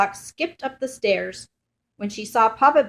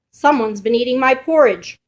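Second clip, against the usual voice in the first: roared; 3 semitones higher, 6 dB louder than usual. Acted. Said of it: "roared Papa Bear".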